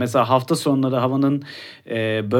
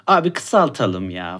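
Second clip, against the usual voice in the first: slow, timid little request; meek request; 3 semitones lower, slower than usual. Retold or imitated. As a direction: ask shyly like a pushover customer.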